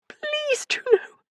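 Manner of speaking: high, broken pleading; weeping friend begs Juno; tearful plea. A narrator's reading.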